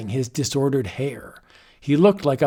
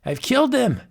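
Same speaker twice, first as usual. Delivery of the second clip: high, frenzied triumphant cry; mad shriek; 10 semitones higher than usual. Acted. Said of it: "Scroon shrieked".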